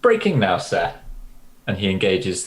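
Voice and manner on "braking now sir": crisp pilot reply. Acted. Pilot acknowledges captain's order, crisp and keen.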